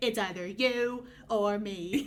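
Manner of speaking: put-on deliberate British accent. Quoting Gale: British accent as Gale. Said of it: "he has a British accent".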